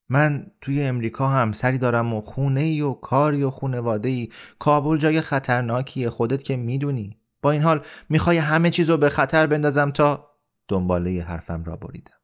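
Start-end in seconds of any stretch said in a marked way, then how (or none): 0.1-10.3 raised pitch, insistent protest; agitated objection. Acted. Amir tells Rahim Khan what he would risk in Kabul, agitated. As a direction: build the objection until cut off. Amir argues against risking everything.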